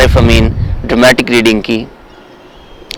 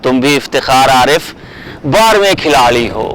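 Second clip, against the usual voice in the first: poem recitation; 3 dB quieter than usual. Acted. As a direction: let each line hang, recite it with feeling. Recites Iftikhar Arif poem. (ڈرامائی انداز میں نظم خوانی)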